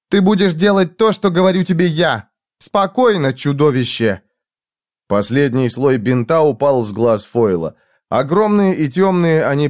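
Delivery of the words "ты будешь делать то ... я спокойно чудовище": commanding woman. A narrator's reading. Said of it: "Она наотмашь ударила его".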